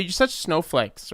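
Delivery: slow scornful put-down; slow, sneering mock of a dismissive guy. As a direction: sneer it down at them, slowly. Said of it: "would automatically say".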